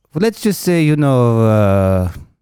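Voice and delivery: put-on soft, close Armenian-accented murmur. Retelling a conversation about a card, the speaker quotes someone in an Armenian accent. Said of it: "I have the right to do this accent".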